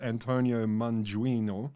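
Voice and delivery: put-on lightly Italian-accented name. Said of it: "you did put an ac-, Italian accent on it".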